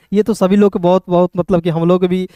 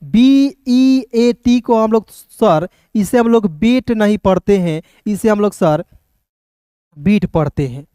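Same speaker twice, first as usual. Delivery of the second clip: mock student question; slower than usual. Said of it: "अब देखिए कहिएगा".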